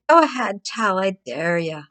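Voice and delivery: mock taunting abuser. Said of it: "only abusers say".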